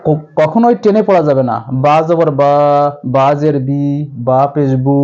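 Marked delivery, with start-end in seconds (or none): 1.8-5.0 vowels stretched long on বা, বি, বু; drawn-out wrong reading. Shown as a demonstration. Teacher showing students how not to read, dragging the vowels. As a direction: drag each syllable out the wrong way. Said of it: "এভাবে টেনে পড়া যাবে না".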